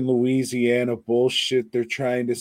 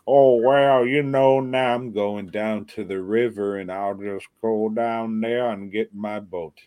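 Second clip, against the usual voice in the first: put-on light Southern accent; 3 dB louder than usual. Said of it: "everybody kinda talked with a Southern accent".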